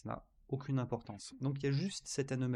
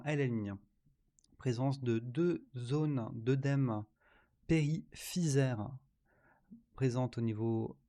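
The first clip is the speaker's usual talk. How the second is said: dictating. Shown as a demonstration. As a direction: dictate it clearly, word by word. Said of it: "C'est parti pour la dictée".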